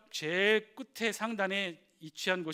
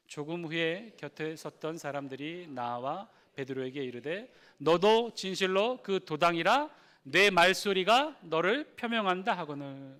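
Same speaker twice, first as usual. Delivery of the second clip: slow, measured reading aloud, swelling louder on the quote; scripture reading; 4 dB louder, slower than usual. Real, not acted. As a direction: lead the congregation through the verse, slowly. Leads congregation reading scripture aloud. (또박또박 느리게 성경 봉독)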